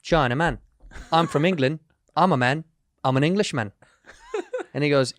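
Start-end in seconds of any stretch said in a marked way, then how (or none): 0.0-3.7 put-on British accent. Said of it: "the accent you just did".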